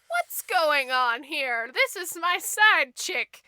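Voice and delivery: slow, drawn-out mock outrage; king demanding an explanation; indignant king. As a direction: stretch each word in disbelief. King walks in on murder.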